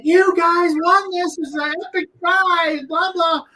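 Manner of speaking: high, slow, pushy pitch; mock hyped-up scam boss; hyped salesman. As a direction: sell it like a hustler. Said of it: "he's like, clapping his hands".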